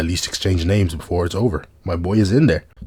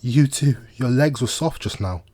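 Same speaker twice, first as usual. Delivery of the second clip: put-on Sheta's accent; 4 semitones higher, slower than usual. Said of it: "I don't know why I gave her that accent".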